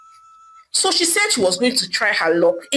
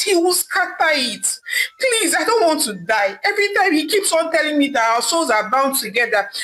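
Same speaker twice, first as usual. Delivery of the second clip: tearful pleading, pitch raised; crying and begging; 3 semitones higher than usual. Acted. Adaeze begs the native doctor for help, crying. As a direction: beg the native doctor through tears. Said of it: "crying and begging him".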